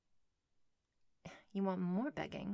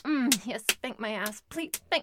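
louder and higher, moaning pleas; loud high pleading; 4 semitones higher, 12 dB louder than usual. Acted. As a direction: plead loudly near climax. Climactic pleading.

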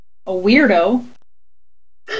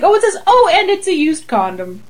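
mother-in-law; 4 semitones higher than usual. Pretend. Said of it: "The mother-in-law's like".

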